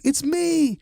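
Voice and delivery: romantic. Retold or imitated. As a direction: croon it like a love dedication. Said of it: "He's like".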